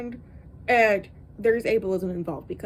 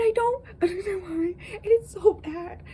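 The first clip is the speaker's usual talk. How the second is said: laughing disbelief; 7 semitones higher than usual. Real, not acted. Laughing at the bad writing.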